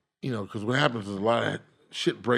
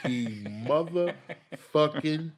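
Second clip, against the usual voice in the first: laughing indignation; 4 semitones higher than usual. Retold or imitated. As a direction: scoff and laugh at the same time. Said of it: "I was like".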